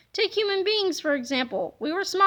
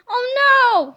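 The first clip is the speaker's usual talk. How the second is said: mock dread; 8 semitones higher, 5 dB louder than usual. Dreading another sequel.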